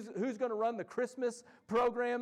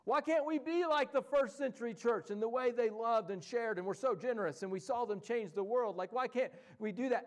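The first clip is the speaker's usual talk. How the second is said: half-hammed complaint, climbing high at the start; mock exasperated outcry; 4 semitones higher than usual. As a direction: play the frustrated churchgoer demanding answers. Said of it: "I'll hear people say".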